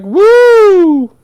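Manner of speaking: high, slow, drawn-out cartoon pig voice; squealing "Woo!" then a slow, high pig line; first little pig. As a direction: stretch it out like a giddy little pig. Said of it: "one pig was like".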